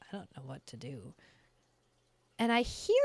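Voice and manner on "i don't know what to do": bewildered daughter. Retold or imitated. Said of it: "looking at me like".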